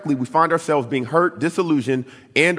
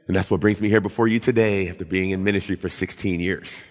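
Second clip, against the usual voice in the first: ordinary delivery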